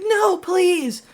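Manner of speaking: a hint of a hammed-up plea; pleading kid. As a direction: whine it like a begging child. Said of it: "And he's like".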